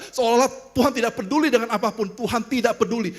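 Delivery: emphatic preacher's refrain with punched key words; preaching. Real, not acted. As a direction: drive each repetition home to the congregation. Preaches in rising repetitions. (khotbah berulang penuh penekanan)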